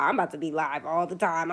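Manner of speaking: ordinary talk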